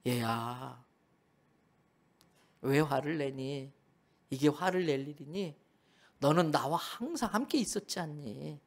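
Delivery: a loving father calming his angry son; gentle father. Acted. (화난 아들을 다정하게 달래는 아버지)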